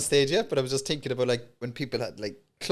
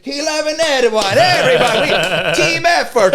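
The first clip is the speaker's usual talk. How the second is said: rallying the crowd; 8 semitones higher, 7 dB louder than usual. Retold or imitated.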